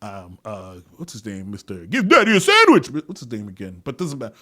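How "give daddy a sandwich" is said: high, loud catchphrase burst; high mock yell. Host blurting an actor's catchphrase, high and loud. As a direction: belt out the silly quote.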